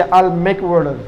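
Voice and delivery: "water" said with a D sound, like "wader"; native T as D. Shown as a demonstration. Teacher showing how natives say it, "water" with D for T. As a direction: soften the T in "water" to a D. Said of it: "ডি তে উচ্চারণ হবে".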